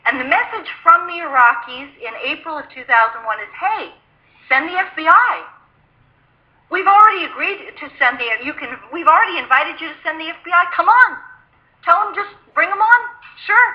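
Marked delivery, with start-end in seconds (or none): 3.6-13.7 high, eager and dismissive, like it's obvious; breezy eager reply. Retold or imitated. Iraqi official to the CIA agent, high and breezy. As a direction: toss off the invitation as if it were nothing.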